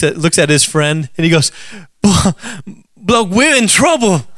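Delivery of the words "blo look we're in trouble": a light, admittedly bad Australian accent. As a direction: tourists in Australia asking directions, weak Australian accent. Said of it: "I don't have a good Australian accent".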